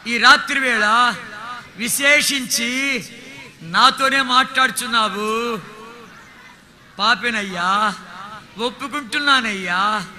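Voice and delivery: slow, drawn-out congregational prayer; slow led prayer. Acted. Preacher leading the congregation in the sinner's prayer, slow and earnest. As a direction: lead the room in prayer, line by line.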